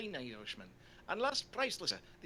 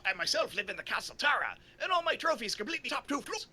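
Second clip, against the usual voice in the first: put-on Irish accent; 5 semitones higher, 4 dB louder than usual. Voicing O'Leary, Irish liar.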